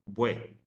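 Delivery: "bue" with u and e glided into one syllable. Shown as a demonstration. Teacher demonstrating a diphthong, as one syllable. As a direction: say "bue" in a single beat. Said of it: "una sola sílaba".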